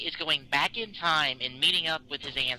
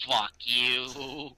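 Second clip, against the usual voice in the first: exasperated; 4 semitones lower, much slower than usual. Retold or imitated. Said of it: "I'm like".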